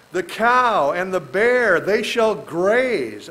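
very slow, drawn-out reading of the verse; slow scripture reading. Acted. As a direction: stretch each word of the verse.

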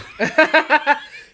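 loud, high-pitched laugh; real laughter. Real, not acted. Host finishes the Coca-Cola story, laughing loudly. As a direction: crack up at your own punchline.

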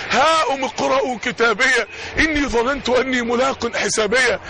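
measured recited verse; lightly chanted verse; Quran recitation. Acted.

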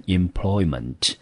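employment said clearly with its -ment ending; teacher's demonstration of employment; pronunciation of employment. Shown as a demonstration. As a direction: model employment in a recap. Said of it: "这个字名词我们念成employment".

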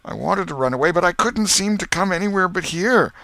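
high-pitched, helpless lament; moaning. A narrator's reading. Potter explaining to the crowd why he came back, tearful moaning. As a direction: wail it out in distress. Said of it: "Potter moaned".

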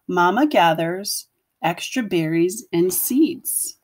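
put-on gentle read-aloud voice for young children; storybook narration. A narrator's reading. Teacher reading a picture book to her class, gentle storytelling. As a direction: tell it like a bedtime picture book.

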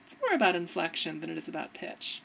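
inflection demo. Shown as a demonstration. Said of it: "You can hear it in my voice".

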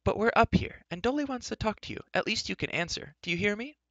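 very high, insistent call; high-voiced, impatient hailing; Elenwy, calling. A narrator's reading. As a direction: demand an answer from someone below, pitched high. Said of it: "she called".

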